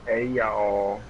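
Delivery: Southern drawl greeting; friendly Southern hello; southern accent. Pretend. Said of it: "That's my best southern accent".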